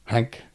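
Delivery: "Hank" echoed with H replacing TH; THINK said as HANK. Retold or imitated. Co-host echoing the boy, THINK pronounced "Hank". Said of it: "he said Hank".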